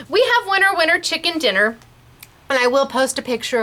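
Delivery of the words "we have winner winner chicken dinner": bouncy, higher winner announcement; sing-song catchphrase. Real, not acted. Host announcing the giveaway winner in a bouncy sing-song. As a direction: call out the catchphrase like a game show host.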